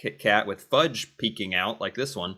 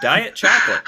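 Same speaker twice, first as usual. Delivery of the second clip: laughing; 8 semitones higher, 8 dB louder than usual. Real, not acted. Mocking the diet chocolate idea.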